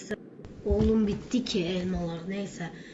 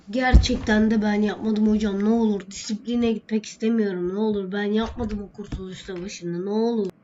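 pleading student. Acted. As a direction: beg the teacher, repeating ne olur. Student begging not to be punished.

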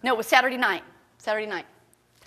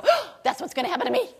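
worried listener; 5 semitones higher, faster than usual. Retold or imitated. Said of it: "people will go".

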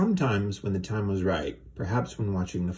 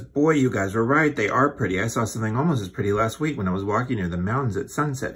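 excited chatter; 3 semitones higher, 5 dB louder, faster than usual. Acted. Gabby babbles over the swans.

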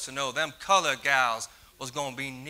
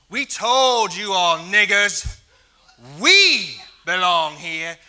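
loud, sneering racist yell; hateful shout; 5 semitones higher, 10 dB louder than usual. Acted. Bomber shouting threats at the Black community, hateful and loud. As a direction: spit the words at them with contempt.

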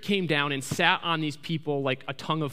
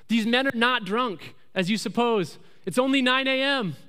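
higher-pitched, emphatic public declaration; Peter addressing the crowd; 5 semitones higher than usual. Retold or imitated. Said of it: "he stands up and he says".

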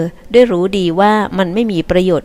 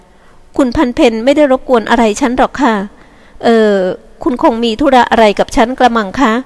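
put-on polite young woman; 4 semitones higher than usual. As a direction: answer graciously, a bit unsure. Yi-wa answers, slow, higher.

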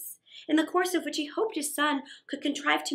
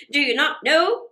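excited townsperson; 8 dB louder than usual. Acted. Townsperson answers mother.

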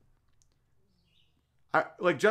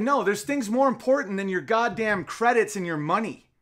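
raised, louder defiant outburst; defiant stand; 6 semitones higher, 4 dB louder than usual. Pretend. A host voicing an imagined star telling off his sponsors, defiantly. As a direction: pitch higher and push louder as if refusing the money.

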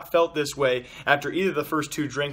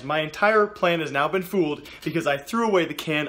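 laughing. Real, not acted. Laughs at own mistake.

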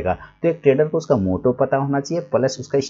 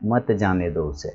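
slower, lower मत जाने दो उसे as one phrase; मत joined to जाने; 4 semitones lower, 4 dB quieter than usual. Shown as a demonstration. Teacher shows the changed sentence, slow and low from मत. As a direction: begin afresh on मत and run it into जाने दो उसे. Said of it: "अब देखिए sentence बदल गया".

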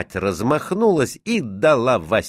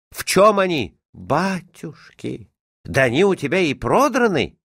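exasperated mother, pitched up high; scolding mother; 10 semitones higher than usual. A narrator's reading. Mother finds her son's torn trousers, scolding in dismay.

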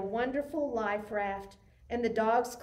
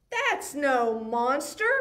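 cried out; 4 dB louder than usual. Acted. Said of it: "cried Oscar".

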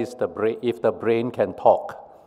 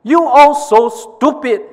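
very high, loud insult; shouted; 13 semitones higher, 7 dB louder than usual. Acted. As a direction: snap at them in a mock shout. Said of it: "shouted the brain".

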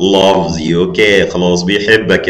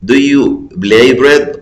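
louder and higher "Do you play bread" as a joke mistake; mock wrong answer; 5 semitones higher, 4 dB louder, much slower than usual. Shown as a demonstration. Teacher mocking a wrong choice for the pupils, louder. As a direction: ham up the silly answer. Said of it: "خلينا كده نجيب من الآخر".

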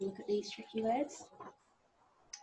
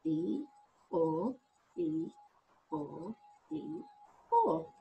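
donkey hee-haw sounds; 3 semitones lower, slower than usual. Shown as a demonstration. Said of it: "that's those two sounds there".

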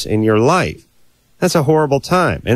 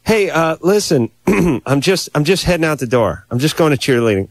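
breezy brush-off; 4 semitones higher than usual. Retold or imitated. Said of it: "And you just go".

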